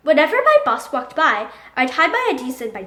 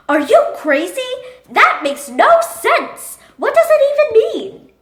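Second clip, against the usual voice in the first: outrage building higher and louder; incredulous outburst; 10 semitones higher, 6 dB louder than usual. Acted. Scientists who won't listen challenge Einstein, incredulous outburst. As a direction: shout it in mounting disbelief.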